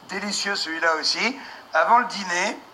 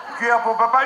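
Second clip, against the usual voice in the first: put-on feeding a baby; faster than usual. Spoon-feeding toddler scene.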